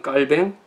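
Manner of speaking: 깔뱅 with a tight kk onset; French pronunciation. Shown as a demonstration. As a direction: say 깔뱅 the French way, ending in -뱅. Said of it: "불어식 발음은".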